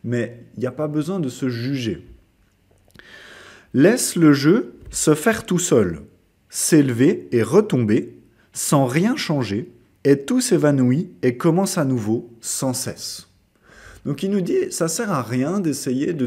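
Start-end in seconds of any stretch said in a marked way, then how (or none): 3.7-13.3 measured recitation with pauses between phrases; poem reading. Acted. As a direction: recite the verse, letting each phrase stand. Reads a poem aloud. (récitation posée d'un poème)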